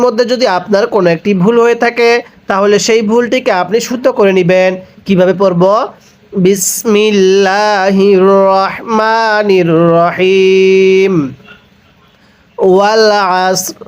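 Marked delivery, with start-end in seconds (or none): 6.3-13.8 slow melodic tilawat, drawn-out vowels; slow Quran recitation. Shown as a demonstration. Teacher recites the verse for students, slow melodic chant. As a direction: chant the verse slowly and evenly. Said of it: "একবার revision দিব".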